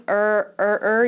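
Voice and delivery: "er" with no h sound; silent H. Shown as a demonstration. English teacher showing learners the first syllable of herbal, silent H. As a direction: start "er" straight on the vowel. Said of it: "you see there's no H".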